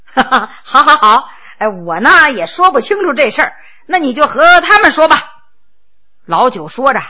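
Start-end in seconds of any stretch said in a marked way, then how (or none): 0.1-5.2 a light chuckle through the words; chuckling. Acted. Ninth brother switching roles with a light chuckle. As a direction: laugh it off and hand over. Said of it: "笑嘻嘻地说".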